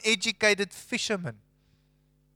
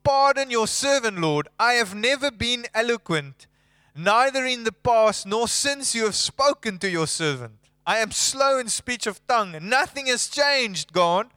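higher, pleading voice of a reluctant servant; pleading Moses; 4 semitones higher than usual. Retold or imitated. Moses pleading with God, higher and earnest. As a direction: beg off like a hesitant man. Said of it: "And Moses said to the Lord".

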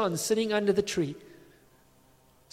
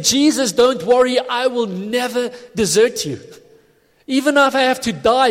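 mildly hammed-up pledge, louder and higher; earnest vow; 4 semitones higher, 4 dB louder than usual. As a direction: swear loyalty as an eager disciple, voice lifted. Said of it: "he was genuine when he meant it".

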